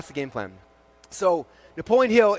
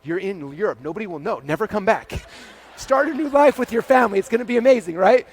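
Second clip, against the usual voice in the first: voice of fear; 3 semitones higher than usual. Retold or imitated. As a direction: whisper the escape plan like a devil on the shoulder, then get carried away. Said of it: "Fear starts freaking out".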